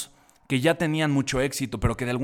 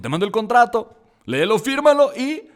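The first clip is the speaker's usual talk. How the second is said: excited manager; 8 semitones higher, 7 dB louder than usual. Retold or imitated. Manager on phone, quoted.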